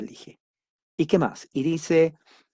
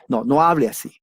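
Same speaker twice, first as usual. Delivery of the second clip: usual speaking voice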